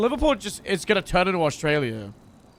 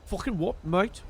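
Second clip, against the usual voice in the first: mock-British slang, rising at the end; amateur British lad accent; put-on British accent; 5 dB quieter than usual. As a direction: practise a British accent with a questioning lift. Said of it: "cook in this accent".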